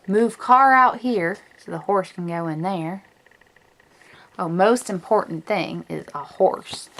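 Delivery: a light, hammed-up Western twang; bad cowgirl accent. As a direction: read it like a playful cowgirl. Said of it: "my really bad cowgirl accent".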